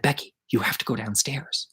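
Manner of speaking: softly voiced hushed order; hushed urging. Hiding kid urges friend to go downstairs, hushed. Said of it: "And we're whispering".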